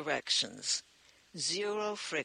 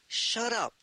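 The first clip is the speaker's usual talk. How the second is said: higher, louder narrator scream; a read scream, pushed up and out; 6 semitones higher, 4 dB louder than usual. A narrator's reading. Lucy silencing Anton and Ezra with a scream. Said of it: "screamed Lucy".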